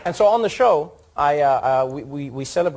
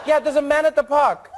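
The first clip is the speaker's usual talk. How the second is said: high, louder caller, laughing through it; mock caller voice; 12 semitones higher, 5 dB louder than usual. Comedian voicing the caller phoning the operator, high and laughing. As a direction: play the fussy caller reporting a man.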